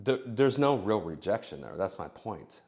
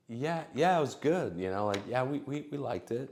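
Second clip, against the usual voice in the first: lightly voiced woman, higher pitch; higher woman's voice; 5 semitones higher than usual. Woman answering the guy about the movie, a touch higher. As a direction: play her, a bit higher and brighter. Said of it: "she might say".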